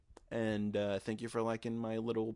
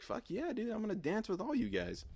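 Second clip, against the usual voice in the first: much higher, hyped party shout; pumped-up yell; 13 semitones higher than usual. Retold or imitated. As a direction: fire up like joining the dance floor. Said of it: "And I was like".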